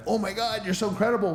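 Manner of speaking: high-pitched imitation of gushing praise; mock admiration. People praising someone who turned sober, mock admiration. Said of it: "rewarded and looked at as".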